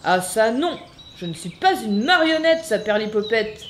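chameleon refuses to be a puppet, getting crosser; growing annoyed. Acted. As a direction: protest with rising irritation. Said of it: "de plus en plus énervé".

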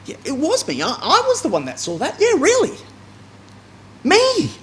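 John insisting. Retold or imitated. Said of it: "he wants to remind us".

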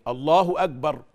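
"أكبر" with the ك voiced as a hard g, "agbar"; mispronounced kaf. Shown as a demonstration. Teacher imitating most people's takbir, kaf hardened to g in "أكبر". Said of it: "مش أكبر أبدًا".

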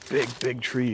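talking while walking over rough ground; on a bumpy road. Real, not acted.

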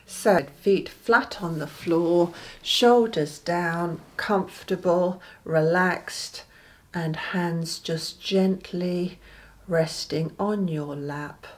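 leisurely instructions, phrase by phrase; guided meditation. Acted. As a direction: guide them gently through relaxing, with pauses. Begins leading the guided meditation.

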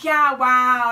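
loud, put-on amazement; fake enthusiasm. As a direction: blurt it loudly with forced cheer. Covering panic with fake enthusiasm.

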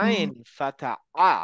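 slow আইন ফাথা আ, the আ squeezed from mid throat; slow Arabic ain. Shown as a demonstration. Teacher slowly modelling the Arabic ain sound. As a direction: draw out আ from the middle of the throat. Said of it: "আইনের উচ্চারণটা একটু difficult".

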